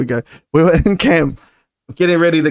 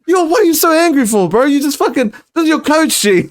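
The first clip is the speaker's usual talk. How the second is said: high mock scolding; 9 semitones higher than usual. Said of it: "I was like".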